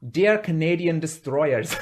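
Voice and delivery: slow, put-on Scottish accent; shaky-attempt Scottish, drawn out. Shown as a demonstration. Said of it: "do it in Scottish".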